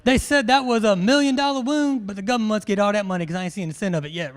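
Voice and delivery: loud movie monologue, speeding up; Forrest Gump. Acted. Briefer reciting the million dollar wound part, Forrest Gump impression. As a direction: start big, then rattle off the rest. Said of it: "Who's ever seen Forrest Gump?".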